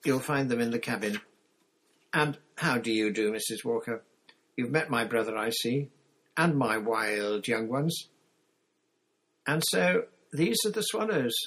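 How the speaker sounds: brisk, sociable mother, lightly played; lightly voiced hearty mother. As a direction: greet everyone in a lightly acted motherly voice.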